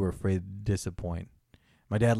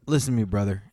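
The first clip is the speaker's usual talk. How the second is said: Hulk Hogan impression; 4 semitones lower, faster than usual. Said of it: "my dad did the weird Hulk Hogan".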